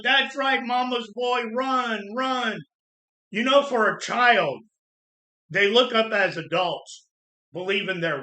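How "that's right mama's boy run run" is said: put-on higher, jeering call after the kid; mocking taunt. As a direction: taunt the crying boy like drunk adults. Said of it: "they're yelling".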